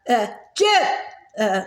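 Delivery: frantic little yelps; yelping. Acted. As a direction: call the dog in a panicked yelp. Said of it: "Agatha yelped".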